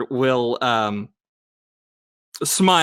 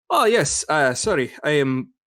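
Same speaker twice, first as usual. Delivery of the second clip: attempted German accent. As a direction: try a German accent, hesitantly. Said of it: "still fucking up the accent".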